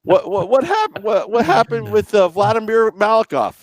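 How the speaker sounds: high, loudish mock reporter; press conference reporter. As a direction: stumble into an eager high-pitched question. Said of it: "a press conference and be like".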